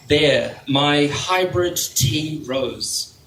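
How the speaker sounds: unhurried recital with spaced phrases; poetry reading. Real, not acted. Poet reading about doing nails on hold, measured poetry-reading voice. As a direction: let each small step stand alone. Reads poem to audience.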